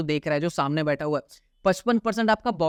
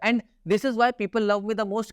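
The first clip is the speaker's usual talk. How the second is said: slow emphatic; 2 semitones higher, much slower than usual. Real, not acted. Boasting slowly to viewers.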